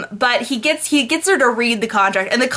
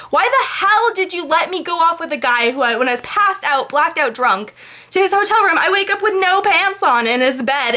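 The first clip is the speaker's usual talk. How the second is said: mock outraged Anna; 6 semitones higher than usual. Ranting at Anna's friends.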